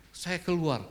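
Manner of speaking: ordinary delivery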